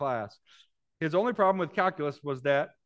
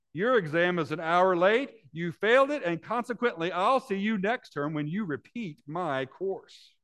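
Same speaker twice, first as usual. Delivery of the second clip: gloating; 4 semitones higher, 4 dB louder than usual. Acted. Professor gloating at late student.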